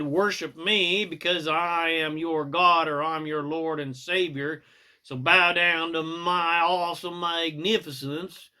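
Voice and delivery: preachy Jesus in a hammed-up Southern accent; mock Southern accent. Jesus demanding worship, in a mock Southern accent. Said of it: "he talked with a Southern accent".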